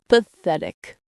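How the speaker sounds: low, glum donkey voice; mournful, resigned verdict; gloomy. A narrator's reading. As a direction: let it drop low, dejectedly. Gloomy Eeyore at his reflection.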